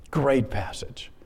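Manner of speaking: soft slow whispered aside; hushed, unvoiced aside. Real, not acted. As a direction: breathe it almost to yourself. Aside after reading passage.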